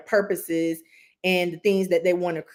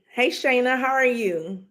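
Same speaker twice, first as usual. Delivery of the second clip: cheerful greeting; 6 semitones higher than usual. Real, not acted. Greeting live chat viewers.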